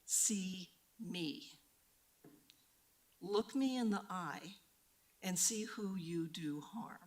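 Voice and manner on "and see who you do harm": slow, hushed whisper; whispered accusation, slowed right down; intense whisper. Real, not acted. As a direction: drop to a breathy plea. Pleading with council members directly.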